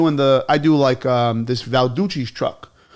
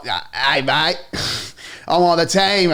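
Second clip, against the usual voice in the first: bad Australian accent. Player telling the pizza guy he's on the team, badly faked Australian accent. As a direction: attempt an Australian accent and fumble it. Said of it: "I can't even do the accent".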